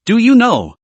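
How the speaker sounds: half-hearted furious father; angry repeated question. Acted. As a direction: push the repeat up into a cry. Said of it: "his voice roared hoarsely".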